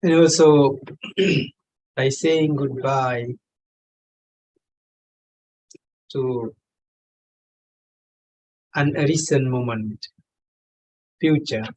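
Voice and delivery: measured meditation guide with long pauses; unhurried meditation leading in short, spaced phrases; guided meditation. Real, not acted. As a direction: guide them gently, phrase by phrase, pausing long between. Leads a meditation session.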